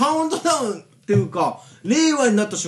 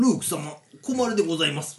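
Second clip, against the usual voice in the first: polite droid butler; 5 semitones lower, 6 dB quieter than usual. Acted. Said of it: "ございます調ですね".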